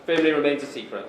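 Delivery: formal best man's toast; wedding speech. Real, not acted. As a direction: raise your voice for the toast.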